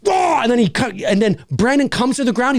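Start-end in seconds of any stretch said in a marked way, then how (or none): 0.1-0.4 imitated dunk yell. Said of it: "just like".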